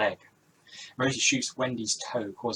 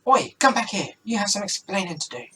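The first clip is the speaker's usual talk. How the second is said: loud, high shout after someone; calling after; 9 semitones higher, 7 dB louder than usual. Acted. Rosie yelling at the fleeing stranger, loud shout. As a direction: yell at him to stop running.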